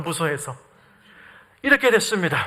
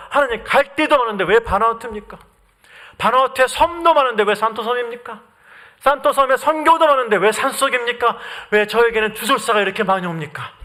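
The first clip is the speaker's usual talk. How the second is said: mildly wronged, piling up why-questions; aggrieved complaint. Retold or imitated. Missionary questions his island posting to God, mildly aggrieved. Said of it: "억울하니까 갇혀뒀던 불만이".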